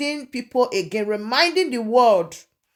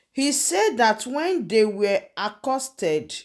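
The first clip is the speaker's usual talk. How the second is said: news read. Real, not acted. Reads the news report in detail.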